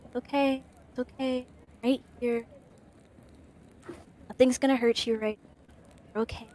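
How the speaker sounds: soft, hushed reassurance; calm someone down gently; soothing. Acted. Comforting a frightened friend.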